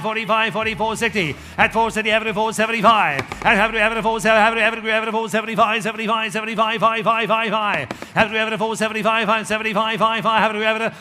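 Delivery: auctioneer. Acted. Auction bid calling chant.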